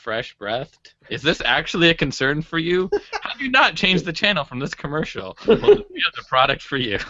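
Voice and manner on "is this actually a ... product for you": mock TV pitchman; hammed-up late night sales pitch; infomercial host. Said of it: "talk like I'm in an infomercial".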